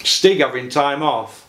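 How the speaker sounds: slow it down and stress Stig so he catches it. Real, not acted. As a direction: repeat the question slowly for someone who missed it.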